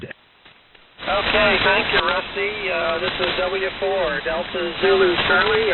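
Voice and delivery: thin crackly transmission; crackly military radio. Real, not acted. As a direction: voice through a shortwave radio. Ham station calling over radio.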